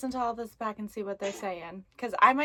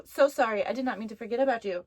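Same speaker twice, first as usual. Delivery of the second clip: excited apology; 6 dB louder, faster than usual. Real, not acted. Apologizing to the spirit quickly.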